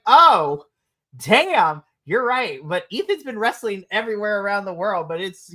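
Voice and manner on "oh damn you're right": "Oh, damn" blurted out loud, then "you're right"; hammed-up shock at the obvious; louder mock realisation. Fan laughing at the forgotten title defence, loud surprise. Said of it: "I was like".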